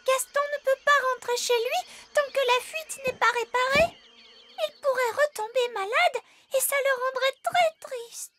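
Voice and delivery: near tears, voice breaking into a whisper; tearful pleading. Acted. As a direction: plead for him, on the edge of crying. Child pleading, upset for Gaston. (supplique au bord des larmes)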